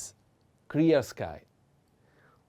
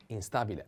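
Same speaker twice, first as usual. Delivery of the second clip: "instabile" with STA stressed, softer; 5 dB quieter, faster than usual. Shown as a demonstration. Teacher shows the accent to learners, soft "instabile" stressed on STA. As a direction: softly lean on the a of "instabile". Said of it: "The accent is on".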